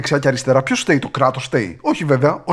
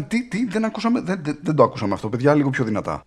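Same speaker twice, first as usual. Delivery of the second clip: mock feigned deafness; 5 dB quieter than usual. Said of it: "Ήτανε".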